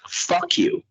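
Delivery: high, defiant yell; defiant outburst. Real, not acted. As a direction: throw it back at the officials. Angry at the red light.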